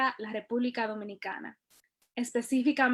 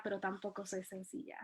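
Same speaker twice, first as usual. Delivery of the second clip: pero tampoco soy sencilla dropping to a much softer close; fading final line; 3 semitones lower, 16 dB quieter than usual. Shown as a demonstration. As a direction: let pero tampoco soy sencilla fade away to end the poem. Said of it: "closing line of the poem".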